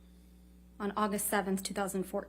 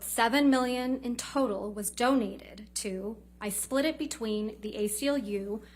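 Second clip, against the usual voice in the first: cross examination. Retold or imitated.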